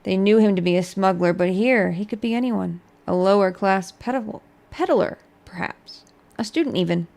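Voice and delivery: measured storybook narration; story narration. Acted. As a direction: read it like a tale. Reads skill book aloud.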